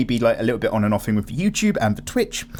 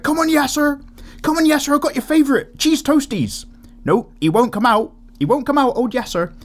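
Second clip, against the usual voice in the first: much higher, louder Welsh presenter coaxing; Welsh newsreader impression; 4 dB louder than usual. Retelling a Bill Bailey skit, a high, loud Welsh presenter coaxing. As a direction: Welsh accent, pleading with Yasser to come out. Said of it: "he's this Welsh presenter who's just like".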